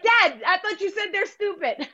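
laughing through the words; laughing tease. Retold or imitated. Daughter teasing her dad about his outburst, laughing.

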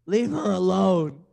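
Pop star defender video. Retold or imitated. Quoting the viral pop star video to co-hosts, mock pleading. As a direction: imitate the viral video's drawn-out outcry. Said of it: "What was that video when they did it for a singer".

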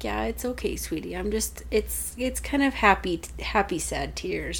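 soft, hushed retold mom voice; gently reassuring. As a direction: soothe a child quietly, playing it down. Retold mother reassuring her daughter.

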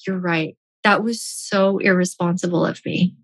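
soft, sheepish admission; guilty and small. Retold or imitated. Wife admitting guilt to her angry husband, hushed. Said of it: "I started to feel really guilty".

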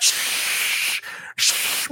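sharp loud shushing; hushing. Real, not acted. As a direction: hush someone suddenly. Hushing the other speaker.

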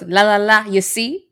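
lightly imitated pop singer; Paolo. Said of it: "She was talking to Paolo. He goes".

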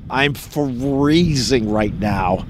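slow, cold-stiffened words; shivering. Real, not acted. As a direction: talk like you're freezing outside.

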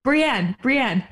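mock Martin urging Brienne to sit up; imitating Martin. Coaxing Brienne on the swing, a playful mock call. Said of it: "you just hear Martin be like".

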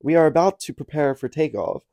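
mock captain over the intercom; airline pilot announcement. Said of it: "Put some enthusiasm in that".

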